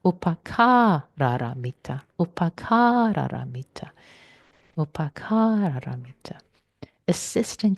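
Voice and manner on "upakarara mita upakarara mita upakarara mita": upakarara mita repeated, fading to a whisper; slow repetition. Shown as a demonstration. Teacher repeating the Pali term to the class. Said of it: "I'll say it again".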